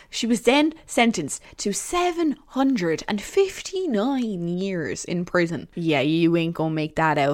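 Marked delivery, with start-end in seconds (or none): 0.1-5.7 slow, weighty verdict voice; dramatic announcement. Pretend. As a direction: drag it out like a verdict. Announcing the sentence.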